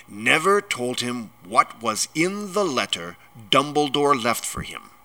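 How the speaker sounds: building from held-in anger to loud outrage; furious giant, building; mounting rage. A narrator's reading. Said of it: "his every syllable trembled with rage".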